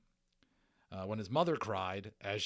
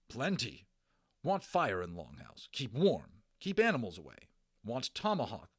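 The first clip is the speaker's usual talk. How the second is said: clipped, louder demanding chief; lightly voiced Little Bear; 4 dB louder than usual. Little Bear telling Omri what he wants. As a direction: bark short demands.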